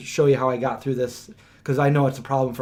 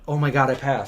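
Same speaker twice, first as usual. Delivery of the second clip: softer, lower stunned relief; quiet relief; 3 semitones lower, 5 dB quieter than usual. Retold or imitated. Told he passed the driving test, quiet stunned relief. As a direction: breathe it out, barely believing it.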